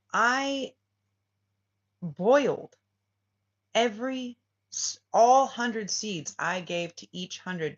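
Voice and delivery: lightly voiced emperor revealing the trick; emperor's grand reveal. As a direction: announce it like a stern ruler. Emperor's dramatic reveal speech.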